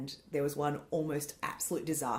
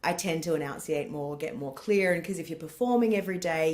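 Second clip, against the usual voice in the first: ordinary delivery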